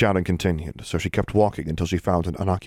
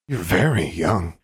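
creepy voice; slower than usual. Acted. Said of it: "something very creepy about his voice".

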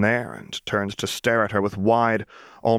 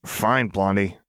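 spat out; slower than usual. Acted. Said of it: "Jinx spit out".

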